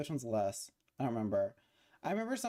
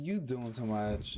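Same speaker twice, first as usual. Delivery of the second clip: low, unhurried dog voice; 8 semitones lower, slower than usual. Retold or imitated. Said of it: "He said".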